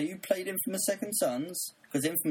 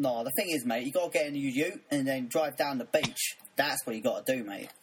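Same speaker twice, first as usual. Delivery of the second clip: light mock Australian accent. Mate telling mate to drive to the beach, mock Australian accent. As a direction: put on a casual Aussie accent. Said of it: "Now it's just going Australian".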